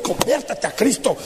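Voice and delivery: quiet mock rebuke; mocking a pushy Christian's insults, said quietly. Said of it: "a bibliazos".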